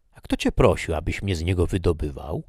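Laura snaps back, voice jumping up; a sudden burst of indignation at her benefactor; vehement retort. Acted. Laura lashes out at Ricardi, vehemently. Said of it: "z największą gwałtownością".

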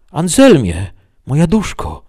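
very high-pitched calling voice; loud, put-on sweet plea; wheedling vampire. Vampire posing as his beloved, coaxing sweetly.

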